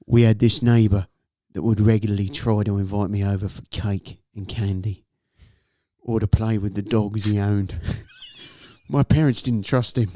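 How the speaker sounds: measured, low-key story narration; story reading. A narrator's reading. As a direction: read the creepy tale straight, with pauses. Reads a scary story aloud.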